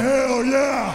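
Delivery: high cheering hell yeah; excited shout. Real, not acted. Host cheering his own crazy idea with a high shout.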